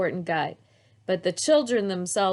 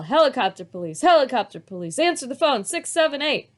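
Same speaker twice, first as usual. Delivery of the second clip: put-on child voice; 5 semitones higher, 6 dB louder than usual. A narrator's reading. Child pretends to dial phone.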